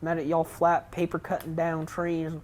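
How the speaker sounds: mildly hammed-up southern voice; bad southern accent. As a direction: voice game dialogue with a makeshift southern accent. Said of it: "that's not even a good southern accent".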